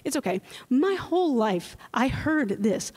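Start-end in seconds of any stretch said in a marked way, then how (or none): 0.0-0.4 lightly mocking, soothing teacher; dismissive teacher. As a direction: shrug it off like a lazy band director. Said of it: "the teacher would just say".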